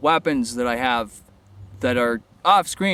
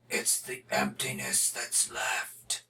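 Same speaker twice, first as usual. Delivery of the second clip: deep, slow menacing wolf voice; wolf guy voice; 3 semitones lower, 10 dB quieter than usual. Pretend. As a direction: growl it like a dark wolf creature. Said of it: "that wolf guy's voice".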